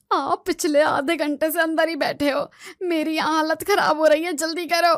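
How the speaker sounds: चिल्लाना. Acted. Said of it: "तुम इतनी जोर से चिल्लाओ मत".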